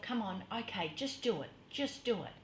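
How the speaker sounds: soft, under-the-breath pep talk; self-coaxing. Retold or imitated. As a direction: quietly talk yourself into it. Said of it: "I'm saying to myself".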